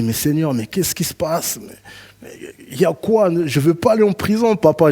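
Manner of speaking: high plaintive plea to God; mild mock whine; pleading prayer. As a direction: beg the Father not to send him back.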